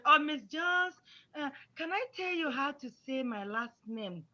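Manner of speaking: courteous, deferential pupil; respectful request. Shown as a demonstration. Pupil asking Miss Jones to hear a name correction, respectful and soft. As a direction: politely ask the teacher's permission, softening after the name. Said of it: "in a respectful way".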